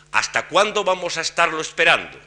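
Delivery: whole phrase lifted high from cuándo, falling at the end. Shown as a demonstration. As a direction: lift the register on "cuándo" and hold it up, then drop at the end. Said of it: "De manera que se dice".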